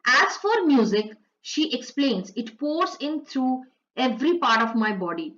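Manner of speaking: slow, careful reading of the English text; slow textbook read-aloud; slow passage reading. Acted. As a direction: read each word out slowly for the class. Slowly reads English passage aloud.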